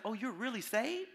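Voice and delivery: lightly voiced disbelief, rising at the end; mildly surprised chaplain. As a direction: imitate a chaplain's surprised query. Acts out chaplain's surprised question.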